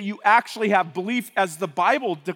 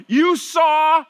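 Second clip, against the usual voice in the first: loud, higher insistent; Peter preaching; 5 semitones higher, 4 dB louder than usual. Acted. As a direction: drive it at the crowd. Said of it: "he's going".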